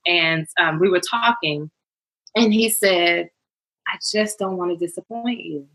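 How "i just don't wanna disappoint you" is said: softly quoted, subdued; retold tearful confession. Husband confessing to his fiancée before the wedding, softly retold tearfulness. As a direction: gently imitate a worried partner holding back tears. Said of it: "through tearful eyes".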